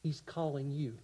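hushed, loving call; tender invitation. Acted. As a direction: speak it softly to each listener.

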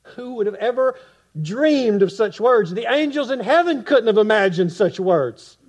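preacher's rising crescendo to the congregation; climactic preaching. Acted.

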